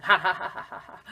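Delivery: ha pulses like laughter; laughing ha. Shown as a demonstration. Teacher shows the vibrato feels like laughing. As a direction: let it turn into a laugh. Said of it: "a little bit sort of like laughing".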